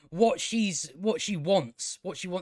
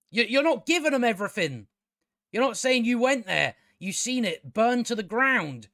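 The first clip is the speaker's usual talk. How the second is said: raised-pitch, insistent reproach; exasperated prompting; 5 semitones higher than usual. Acted. Viewer telling Bronwyn what she left out, exasperated. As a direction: press the point as if correcting her. Scolds Bronwyn as if addressing her.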